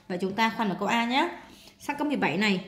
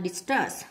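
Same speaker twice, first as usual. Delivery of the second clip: "discuss" stressed on its second syllable; 3 semitones lower than usual. Shown as a demonstration. Teacher marking word stress for students, second-syllable stress on "discuss". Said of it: "nhấn âm hai".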